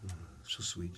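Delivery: put-on low, soft cooing as a suckling baby; contented baby. Teacher imitating a baby sucking milk, soft cooing. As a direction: coo it like a baby at the bottle. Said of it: "and you go".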